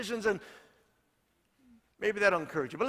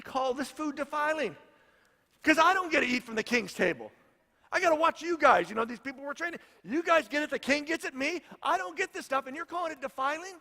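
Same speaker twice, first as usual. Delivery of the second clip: indignant chief; 6 semitones higher than usual. Retold or imitated. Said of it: "chief voiced in retelling".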